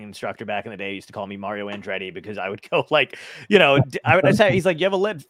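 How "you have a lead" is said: put-on higher-pitched old Italian man; imitated Italian driving teacher; old Italian man accent. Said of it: "he's this old Italian man".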